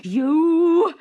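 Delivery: sudden high shout. A narrator's reading. Shopkeeper shouting at Teddy, furious shout. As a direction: blast it out in outrage. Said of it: "he shouted".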